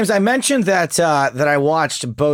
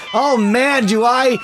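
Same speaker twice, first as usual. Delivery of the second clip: mock critic voice; 5 semitones higher than usual. Impersonating the critic.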